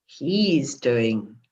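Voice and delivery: slow, laughing insinuating ooh; teasing insinuation. Shown as a demonstration. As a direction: tease them knowingly, breaking into a laugh. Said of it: "Or he's, or".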